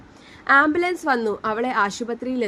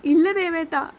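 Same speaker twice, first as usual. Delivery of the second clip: tearful plea; 4 semitones higher than usual. Acted. Wife crying after verdict.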